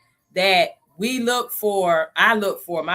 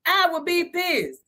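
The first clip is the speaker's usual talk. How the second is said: mock outrage; 7 semitones higher, slower than usual.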